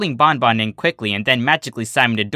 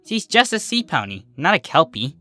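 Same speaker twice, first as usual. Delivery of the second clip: reassuring; 5 semitones higher than usual. Acted. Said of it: "Lyra assured her".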